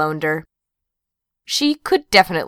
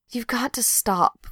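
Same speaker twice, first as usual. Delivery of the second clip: soft, slow mumble; slow, soft mumbled plea; 5 semitones higher, 5 dB quieter, slower than usual. A narrator's reading. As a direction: mumble it into a shoulder. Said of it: "Pat mumbled".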